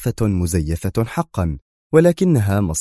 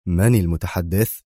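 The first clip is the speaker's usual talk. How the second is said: annoyed. Acted. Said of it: "وهو يقول في ضيق".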